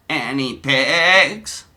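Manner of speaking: slow, drawn-out put-on voice; Donnie's chat voice. Streamer voicing Donnie's reply in chat, slow put-on voice. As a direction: stretch the words out slowly. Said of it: "forgive my voices".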